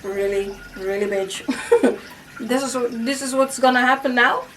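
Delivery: sass the unseen force; sarcastic challenge. Retold or imitated. Talking back to whatever knocked the glass off, sarcastic. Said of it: "I was like".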